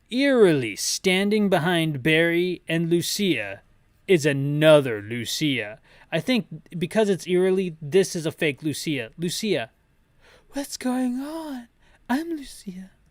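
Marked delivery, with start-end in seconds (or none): 10.5-12.8 very high, light, soft-edged character voice. Reading a comic's lines aloud, voicing Lucia: a singer's voice. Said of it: "Michael Jackson voice this entire time for Lucia".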